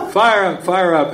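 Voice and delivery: high, shouted rally cry; cheering call. Retold or imitated. Lady in the back pipes up, high cheering shout. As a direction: rouse the room like a cheerleader. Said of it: "they get more".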